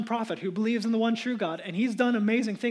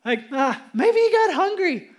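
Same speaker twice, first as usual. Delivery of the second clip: louder sarcastic jeering; loud mocking taunt; 5 dB louder than usual. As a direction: rub it in with exaggerated concern. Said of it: "He's mocking them".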